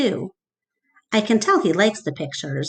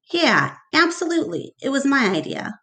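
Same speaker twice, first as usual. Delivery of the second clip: boastful Mac; 6 semitones higher than usual. Acted.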